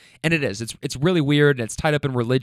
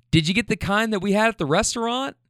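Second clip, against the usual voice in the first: higher-pitched questioning wife; wife's voice; 6 semitones higher than usual. Retold or imitated. Wife quizzing winded husband, lightly voiced higher question.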